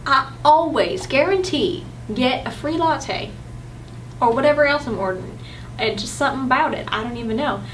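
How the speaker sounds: put-on drawling Southern US accent. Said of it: "I always can pull out the Southern".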